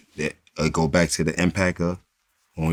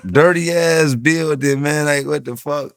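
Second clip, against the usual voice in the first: mock disgust; 7 semitones higher, slower than usual. Acting out his reaction to tourists.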